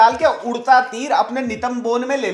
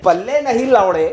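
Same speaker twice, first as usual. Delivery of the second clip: Lord Mountbatten quote; 5 dB louder than usual. Retold or imitated. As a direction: declaim it like a colonial lord. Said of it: "कह गया था Lord Mountbatten".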